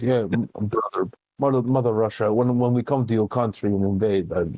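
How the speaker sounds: mock Russian accent, rising to a shout; hammed-up Russian gamer taunting strangers. Retelling a lobby prank to co-host, mock Russian accent. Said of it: "So I put on a Russian accent".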